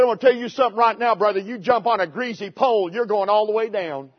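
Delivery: quick Southwest Missouri country opening, then easing off; Southwest Missouri country accent. Retold or imitated. Retelling an old preacher's greasy pole warning, Southwest Missouri country accent. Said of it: "he said in his Southwest Missouri country accent".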